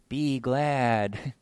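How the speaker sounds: put-on soft little "Be glad" like a child's cheer; mild be glad. Shown as a demonstration. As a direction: say "Be glad" gently, the tame verb. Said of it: "This isn't that verb".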